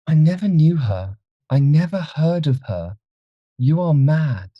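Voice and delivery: high, frightened protest; alarmed character voice, pitched well up; panicked denial. A narrator's reading. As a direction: deny it desperately for your life. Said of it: "he stammered".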